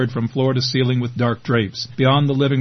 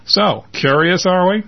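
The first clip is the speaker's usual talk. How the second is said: sarcastic; 6 semitones higher, 3 dB louder than usual. A narrator's reading. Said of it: "says David sarcastically".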